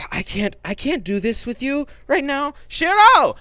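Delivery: fed-up boss hollering for help; exasperated boss yells into the dark; yelling. Acted. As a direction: build from a high complaint into a loud, high yell of "Shiro!". He yells back.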